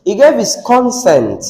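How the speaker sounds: "consent" stressed on the first syllable, second falling away; noun stress. Shown as a demonstration. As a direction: punch the opening of "consent", then let it fall. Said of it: "let's go with the noun pronunciation".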